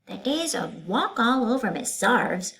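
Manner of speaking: high, loud stern ultimatum; stern teacher. Acted. Teacher refusing to continue class, stern. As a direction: lay down the law to the class.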